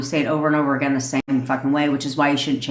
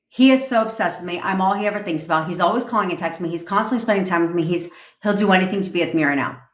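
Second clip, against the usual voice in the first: rushed, monotone recital; robotic affirmation; faster than usual. Shown as a demonstration. Coach demoing a scripted robotic affirmation, flat and rushed. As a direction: rattle it off like a script with no personality. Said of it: "No personality. robotic".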